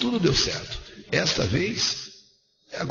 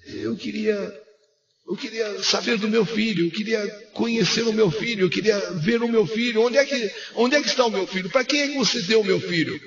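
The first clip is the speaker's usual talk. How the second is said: a hint of tearful pleading, pitch raised; pleading mother; 6 semitones higher than usual. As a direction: imitate the crying mother, lightly voiced. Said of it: "com ar de choro". (mãe chorosa, suplicando de leve)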